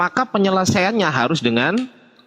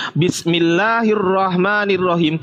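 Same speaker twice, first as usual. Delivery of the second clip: Quran recitation; 2 semitones higher, slower than usual. Shown as a demonstration. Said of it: "di dalam Al-Quran".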